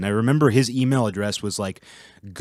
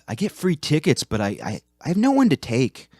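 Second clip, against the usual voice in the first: mock sad pickup line; 5 semitones higher than usual. Creepy older coworker quoted.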